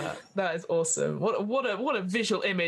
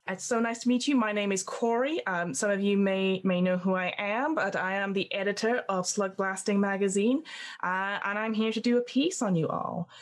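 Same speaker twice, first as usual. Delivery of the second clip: gushing editor. Acted. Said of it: "she speaks just like that".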